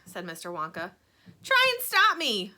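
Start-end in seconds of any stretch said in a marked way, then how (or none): 1.4-2.5 high, slow, loud defiance; queasy defiant retort. A narrator's reading. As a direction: dare him, sick and stubborn. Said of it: "said Missus T V".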